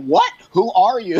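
high, bewildered "who are you" with a laugh; mock baffled parents. Guest imitating her confused parents, laughing. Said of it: "my parents are like".

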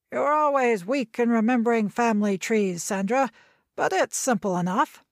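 put-on old doctor explaining impatiently; lightly voiced old grandfather. Grandfather explains family tree.

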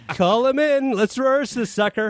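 high, bright call to start rehearsal; mock eager order. Director calling cast in, hammed-up eager order. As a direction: pitch it up like a keen director.

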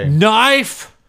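loud hyped-up shout of the name; hype shout. Acted. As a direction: announce it like a wrestler's name. Hyping the Knife Dude ad.

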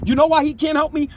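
high, exasperated rhetorical question; pissed off. Real, not acted. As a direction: fire it out, really annoyed. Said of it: "And I'm pissed".

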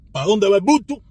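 loud, rising, playful question; mock crowd-follower. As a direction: ask it like someone eager to follow the crowd. Mocking the herd-following Cuban.

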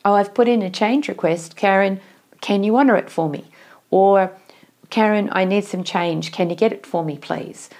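a lightly voiced polite ask; polite request. Shown as a demonstration. Team member asking Karen nicely for change, polite and friendly. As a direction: show the friendly way to ask a favour. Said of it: "there's a nice way of asking for something".

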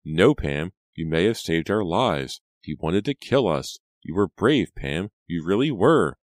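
insistent, heartfelt encouragement; earnest reassurance. Acted. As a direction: convince a shaken cousin. Reva reassures her cousin.

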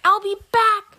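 high, loud parting threat; villain's cry. A narrator's reading. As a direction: yell it as you flee. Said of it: "she cried".

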